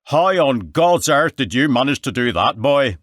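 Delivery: loud Northern Irish demand; Northern Irish sergeant grilling the young soldier. A narrator's reading. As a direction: boom the question in Northern Irish. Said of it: "thick Northern Irish accent".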